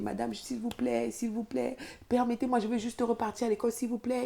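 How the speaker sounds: supplie plus haut et lentement; supplication. Retold or imitated. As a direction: implore la responsable de la laisser étudier. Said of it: "je commence à supplier". (supplication plus aiguë et lente)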